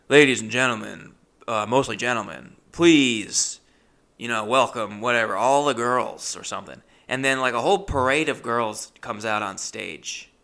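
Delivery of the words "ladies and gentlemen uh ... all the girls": louder, hammed-up MC voice; loud mock emcee intro; mock club announcer.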